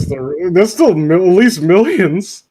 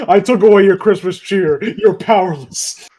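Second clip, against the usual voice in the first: mock-sinister Santa, louder then slowing; whimsical villain impression; 3 semitones higher, 4 dB louder than usual. Evil Santa defeats the kid, whimsical mock gloating. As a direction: gloat playfully, drawing out the final word. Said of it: "doing a disturbingly whimsical impression".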